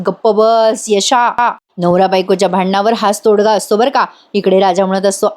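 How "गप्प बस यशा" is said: slow, drawn-out imitation of an old man shushing; a light imitation of Anna hushing Yashoda, very slow. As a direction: stretch each word out to silence Yasha. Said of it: "ते यशोदाचं तोंड दाबत असतात आणि म्हणत असतात".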